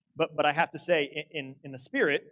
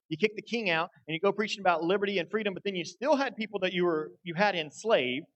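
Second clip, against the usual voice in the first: raised-pitch rant piling up grievances; mock angry tirade; 4 semitones higher, 3 dB louder than usual. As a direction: act out an indignant telling-off, building to a high finish. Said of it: "He could have been mad. He could have been angry".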